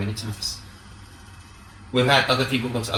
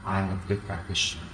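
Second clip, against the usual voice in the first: slow, soft, haughty mock voice; snooty practitioner; 4 semitones lower, 8 dB quieter than usual. Teacher mocking practitioners who quiz her lineage, in a slow, haughty voice. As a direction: drag out the question like a smug devotee. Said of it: "they talk just like that to you".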